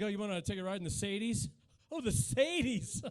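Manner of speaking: mock the posh car bragger gently; mild imitation of a snobby Mercedes owner; snooty car owner. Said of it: "I don't know why you talk like that".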